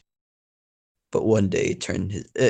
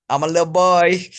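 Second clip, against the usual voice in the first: higher, louder, hammed-up enthusiasm; enthusiastic; 6 semitones higher, 5 dB louder than usual. Shown as a demonstration. Player mockingly offering another take, exaggerated enthusiasm. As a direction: pipe it up with mock eagerness. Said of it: "say it more enthusiastically".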